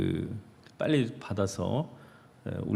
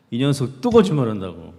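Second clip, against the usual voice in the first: scolding mother; 5 dB louder than usual. Retold or imitated. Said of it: "엄마가 엄청 야단치고".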